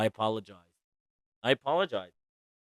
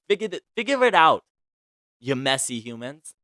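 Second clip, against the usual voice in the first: higher and louder, throwing up her hands in exasperation; a fed-up cry of figure it out; exasperated outburst; 3 semitones higher, 5 dB louder than usual. Real, not acted. Fed up with quarreling celebrities, an exasperated higher, louder outburst.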